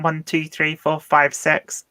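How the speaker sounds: New Zealand counting, "six" with a squashed vowel; mock New Zealand vowels on the numbers; New Zealand accent. Shown as a demonstration. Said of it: "they count".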